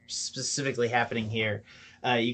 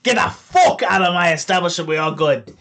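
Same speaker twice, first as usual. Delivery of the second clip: nervous halfling backing down; 6 semitones higher, 8 dB louder than usual. Acted. Halfling facing a rifle backs down, high loud flustered placating.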